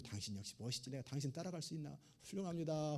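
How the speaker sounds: flattering wife. Retold or imitated. Husband voiced flattering his wife.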